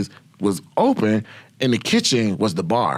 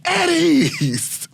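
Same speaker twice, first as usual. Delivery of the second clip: much higher put-on barking voice; drill sergeant. Sergeant calling out the private, high stern call. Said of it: "She said".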